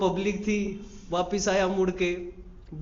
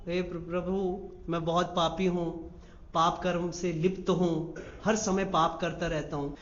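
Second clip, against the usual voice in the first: quiet confession; 2 semitones lower, 6 dB quieter than usual. Acted.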